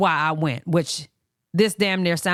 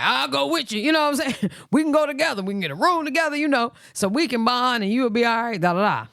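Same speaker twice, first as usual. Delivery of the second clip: lightly voiced brother, higher; brother's offer; 6 semitones higher than usual. Brother offering to come along, lightly raised voice. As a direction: offer support like a big brother. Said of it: "my other brother, like".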